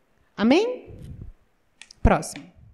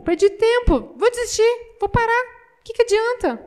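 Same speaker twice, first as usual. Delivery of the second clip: high, louder lament of giving up; high, louder lament: perdi tempo; despairing whine; 9 semitones higher, 3 dB louder than usual. Retold or imitated. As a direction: wail it like a farmer who lost everything. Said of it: "Eu olhei assim".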